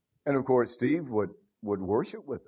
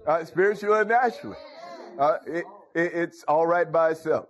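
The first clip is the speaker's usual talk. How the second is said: higher, voice catching with emotion; tearful preaching; 5 semitones higher than usual. Real, not acted. Preacher moved about the plain gospel, tearful. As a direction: preach near tears.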